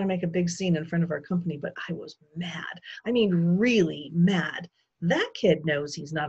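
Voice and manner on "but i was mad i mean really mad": whispered anger. Acted. Narrator's hushed anger.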